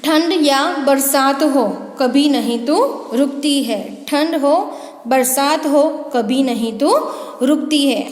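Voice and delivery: put-on sing-song recital for children; poem recitation. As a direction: recite the little clock poem to the class. (बच्चों के लिए कविता पाठ)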